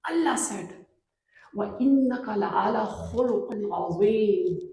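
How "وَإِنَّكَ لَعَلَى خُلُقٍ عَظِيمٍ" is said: quick recited Arabic verse; Quran recitation. Acted. Preacher recites the verse to the congregation, fast. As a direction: recite the verse in one flowing breath.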